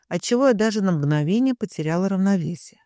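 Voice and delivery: ordinary delivery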